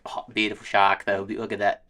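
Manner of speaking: lightly imitated Aussie surfer; a hint of mock Australian admiration; Australian accent. Surfers admire the shark that bit their buddy, light mock Australian accent. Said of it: "super sick Australian video I saw".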